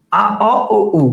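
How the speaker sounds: আ, অ, ও, উ in sequence, open to rounded; rounded vowel demonstration. Shown as a demonstration. Teacher runs through vowels for students, progressively rounded আ-to-উ demonstration. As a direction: step from open আ to round-lipped উ. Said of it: "উচ্চারণটা গোল হয়ে যাবে".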